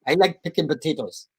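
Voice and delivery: put-on rough stab at a Dutch accent; attempted Dutch accent. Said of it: "A Dutch accent".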